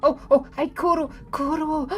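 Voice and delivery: high loud happy call of a name; light up at a friend; excited greeting. Real, not acted. Streamer spots a viewer in chat, excitedly.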